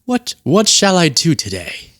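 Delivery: slow, stately mock deity; God impression. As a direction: muse slowly like a deity with options. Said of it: "and God's like".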